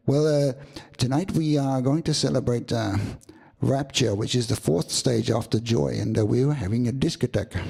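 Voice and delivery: put-on light Indian accent on English.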